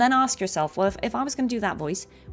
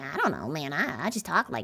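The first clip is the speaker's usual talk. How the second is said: put-on little gremlin creature voice; 5 semitones lower, 5 dB quieter than usual. Imitating a woman who talks a bit like a gremlin, gremlin-like voice. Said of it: "it's a bit like a gremlin voice".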